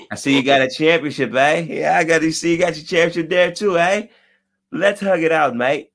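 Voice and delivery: playful Canadian accent impression; mock Canadian accent. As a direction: tease them in a Canadian accent, leaning on every eh. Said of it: "Canadians gonna be Canadians".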